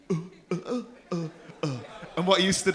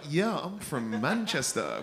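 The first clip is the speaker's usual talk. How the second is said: imitating his voice; slower than usual. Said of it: "you don't sound like you".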